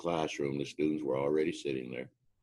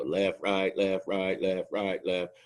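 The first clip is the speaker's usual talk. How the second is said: louder, higher drill cadence call; yelling cadence; 5 semitones higher, 4 dB louder, much slower than usual. Retold or imitated. Instructor yelling cadence to trainees on the drill pad, loud and higher. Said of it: "yelling cadence to them".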